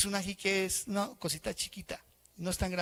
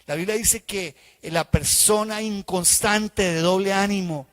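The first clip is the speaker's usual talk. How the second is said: louder, slow preaching voice; emphatic preaching; 3 semitones higher, 6 dB louder, slower than usual. Real, not acted. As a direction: drive home doble ánimo slowly. Pastor preaching on double-mindedness. (predicando con énfasis y despacio)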